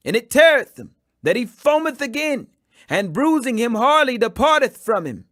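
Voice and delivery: high, loud desperate plea of a father; pleading father. Acted. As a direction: beg the Master for your only child. Father pleads for his possessed son.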